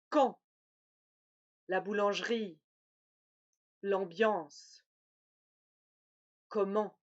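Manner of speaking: careful nasal vowels, one word at a time; repeating nasal words. Shown as a demonstration. Teacher repeating nasal words for the class. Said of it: "Oui, on répète".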